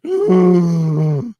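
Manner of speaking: loud drawn-in gasp of shock; rising gasp of horror. Retold or imitated. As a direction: gasp like you can't believe it. Staff shocked reaction.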